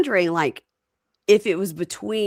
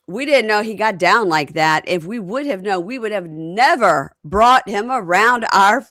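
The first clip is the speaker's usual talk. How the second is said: mock indignation; 4 semitones higher, 5 dB louder than usual. Mocking a cast member's claim.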